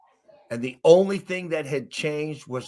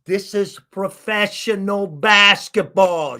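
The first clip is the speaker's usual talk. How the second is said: louder, higher and slow disbelief; incredulous; 8 semitones higher, 6 dB louder, slower than usual. Retold or imitated. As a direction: spell out your amazement word by word. Disbelief at simple drill.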